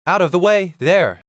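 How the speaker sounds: loud, high bawl to clear the road; bawling coachman. A narrator's reading. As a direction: yell at the crowd to get out of the way. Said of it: "bawled a coachman".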